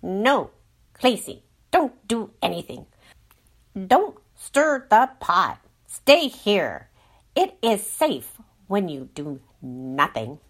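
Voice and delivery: fearful inner voice. Acted. Mind voice restraining Clacy.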